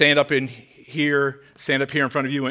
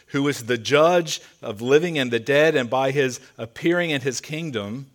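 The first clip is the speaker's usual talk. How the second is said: grave, earnest quoting of a charge; solemn charge. Retold or imitated. Apostle charging young pastor Timothy to preach, with all seriousness. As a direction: deliver it as a serious, weighty charge. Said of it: "He does it with all seriousness".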